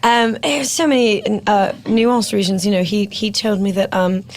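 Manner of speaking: put-on posh English accent. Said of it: "go back to my Porsche accent".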